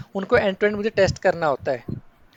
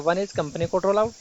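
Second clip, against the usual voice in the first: slow dictation; much slower than usual. Shown as a demonstration. Teacher dictating a term slowly.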